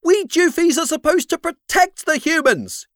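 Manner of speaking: high, loud little creature; squeaky creature shouting. A narrator's reading. Flip the creature keeps shouting.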